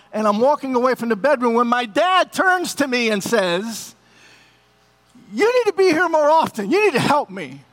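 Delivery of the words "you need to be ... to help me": higher, insistent father's voice; demanding father. Retold or imitated. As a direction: voice the sick dad pressing his son. Dying father demanding help.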